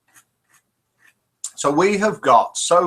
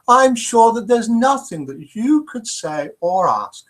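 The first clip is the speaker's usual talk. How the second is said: put-on mildly higher, gentle old nun; old nun's voice; 5 semitones higher, 3 dB louder than usual. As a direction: lightly voice the kindly old nun.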